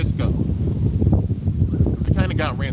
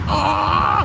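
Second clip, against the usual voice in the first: mock yell; 7 semitones lower, 6 dB louder than usual. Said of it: "You hear Drum yelling".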